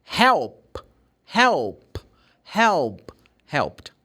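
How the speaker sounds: help repeated, then helped with a final t; help drill. Shown as a demonstration. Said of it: "because you have the letter K".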